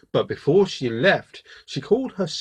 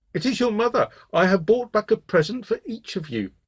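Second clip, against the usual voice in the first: high, put-on motherly voice; soft-voiced wolf; 7 semitones higher than usual. A narrator's reading. Wolf poses as mother to trick the goats, soft and high. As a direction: coax them in a falsely gentle high voice. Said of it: "called in his new soft voice".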